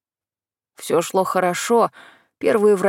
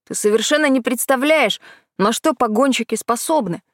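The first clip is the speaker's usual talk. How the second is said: возмущённо; 4 semitones higher than usual. Acted. Кайран обижен и спорит.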